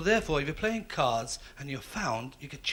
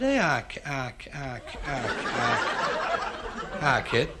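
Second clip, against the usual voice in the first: stutter; 3 semitones lower, much slower than usual. Acted. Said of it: "who stuttered just as bad".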